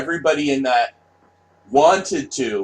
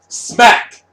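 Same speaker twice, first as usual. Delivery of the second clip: a sharp shouted smack, much higher and louder; mock smack shout; 11 semitones higher, 9 dB louder than usual. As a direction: shout the slap as a sound effect, high and loud. Acting out smacking the kid.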